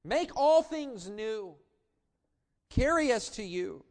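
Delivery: pleading prayer. Acted. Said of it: "we cry out to him".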